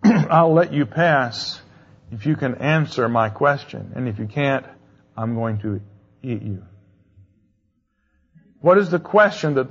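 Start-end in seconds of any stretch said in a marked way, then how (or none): 0.0-6.6 menacing sphinx. Acted. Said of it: "And the sphinx says".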